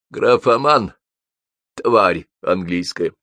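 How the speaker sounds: contemptuous, slowing insult; through gritted teeth. A narrator's reading. Тургенев curses Байрон once he's gone, through gritted teeth. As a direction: squeeze the insult out slowly through your teeth. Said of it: "процедил".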